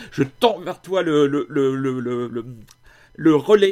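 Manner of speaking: loud, halting mock sprint; while running. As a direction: stammer as if passing a relay baton. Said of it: "je suis en train de courir là".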